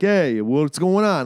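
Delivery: put-on slow New York accent greeting. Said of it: "your typical New York accent".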